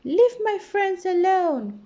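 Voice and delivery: high, loud, fierce demand; angry cry. A narrator's reading. Little fish confronts the shark, loud and angry. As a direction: stand up to the bully. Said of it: "cried little fish angrily".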